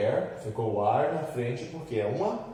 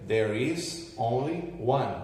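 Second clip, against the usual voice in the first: there is only one, spelled out slowly; slow model sentence; much slower than usual. Shown as a demonstration. Teacher giving students a model answer, slow and clear. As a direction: say it slowly so the class can follow. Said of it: "Aí eu diria".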